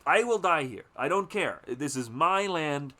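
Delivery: mock a bitter landowner vowing to kill; stubborn threat. The father threatens Willard, mock-angry. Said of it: "he's obsessed with".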